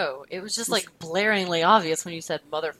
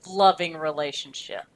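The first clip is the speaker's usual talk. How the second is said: sarcastic. Real, not acted. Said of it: "I was being really sarcastic".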